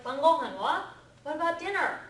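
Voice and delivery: high, loud fussing mother asking about dinner; a host mom's alarmed question; fussy mother; worried host mother. Retold or imitated. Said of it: "So she's like".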